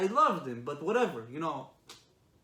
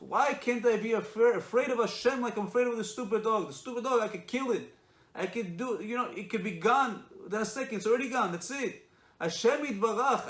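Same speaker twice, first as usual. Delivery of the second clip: raised, high-pitched retold plea; impassioned outcry; 6 semitones higher, 5 dB louder than usual. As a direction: act out the rabbi's heated self-reproach, loud and high. Rabbi's impassioned answer to his son.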